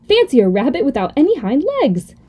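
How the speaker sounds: amused storybook taunt; mocking disbelief. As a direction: poke fun at the odd rabbit. Wild rabbit mocks the toy rabbit.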